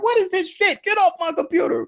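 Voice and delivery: high, put-on exasperated squawk; annoyed outburst. Mocking how we react to a pop-up, high and exasperated. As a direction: act out being fed up with the pop-up. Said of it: "You know how you be like".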